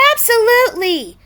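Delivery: high, loud agreeing cry; eager agreement. A narrator's reading. All the birds agreeing eagerly. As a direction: agree with enthusiasm. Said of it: "all the birds agreed".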